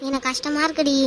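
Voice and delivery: downcast, mildly weepy; tearful. Acted. Crying friend admitting it hurts to her comforter, tearful. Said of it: "அழுகையை நிறுத்து".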